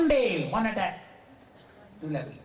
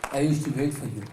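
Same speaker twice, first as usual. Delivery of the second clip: hurt reply; 4 semitones lower, faster than usual. Acted. Wife's reply, low and hurt.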